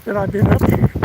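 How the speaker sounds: winded, short breaths between phrases. Real, not acted. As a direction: talk while catching breath. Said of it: "a little winded again".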